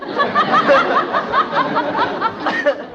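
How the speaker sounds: flustered giggle breaking into the word; a nervous laugh covering a slip. Acted. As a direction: laugh it off, caught out. Mother laughs nervously, caught out.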